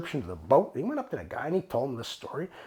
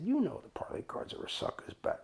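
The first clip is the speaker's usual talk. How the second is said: hushed, near-whispered aside; confiding, up close; 5 semitones higher, 8 dB quieter than usual. Retold or imitated. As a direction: lean in and say it under your breath. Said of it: "I got real close to him".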